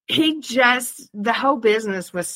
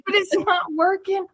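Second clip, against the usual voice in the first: husband whining; 11 semitones higher than usual. Retold or imitated. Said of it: "And he's like".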